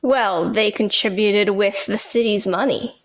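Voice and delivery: lightly sarcastic defense. Real, not acted. Co-host mock-defends council members who gave no money, sarcastic. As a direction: deliver it with understated, dry sarcasm. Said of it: "You heard the sarcasm in my voice".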